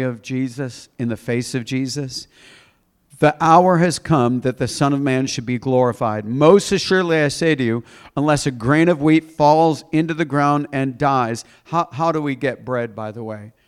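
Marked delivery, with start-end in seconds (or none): 3.2-11.5 emphatic Bible reading to a congregation; scripture reading. Acted. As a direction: read the verse out with weight. Reads scripture aloud.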